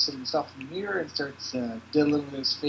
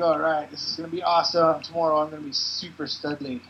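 Cliff voice; 7 dB louder than usual. Acted. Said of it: "So Cliff's like".

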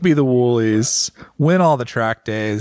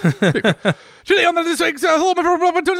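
laughing. Real, not acted. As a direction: try to read while cracking up. Laughing through fake intro.

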